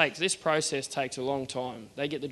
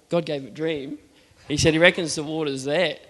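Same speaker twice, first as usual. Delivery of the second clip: mildly incredulous relay, rising at the end; retold disbelief; 5 dB louder than usual. Driller relaying the claim to his mate, mildly incredulous. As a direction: pass on his claim with a touch of doubt.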